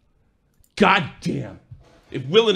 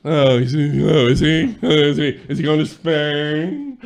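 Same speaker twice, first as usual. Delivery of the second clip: mock British voice. Mocking the target's voice.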